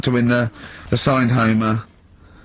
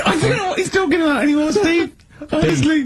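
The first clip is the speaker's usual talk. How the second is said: high, fast, laughing through the words; helpless giggling disbelief. Real, not acted. Host giggling to the producer about Karl, laughing. Cracking up at Karl's clue.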